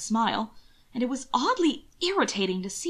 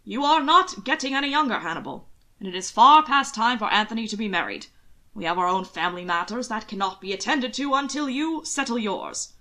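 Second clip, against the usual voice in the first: louder blustering uncle; booming complaint; 3 dB louder than usual. Acted. Uncle Robert booms his complaint at Hannibal. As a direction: boom out the grievance. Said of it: "his own booming complaint".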